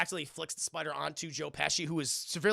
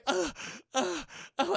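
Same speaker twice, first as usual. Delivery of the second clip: short high-pitched mock groans; pained grunts; 11 semitones higher than usual. Streamer acting out the injured burglar stepping around, pained grunts. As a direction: imitate wincing at each step.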